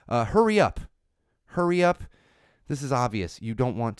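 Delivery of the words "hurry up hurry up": impatient parent. Acted. Impatient parent rushing child.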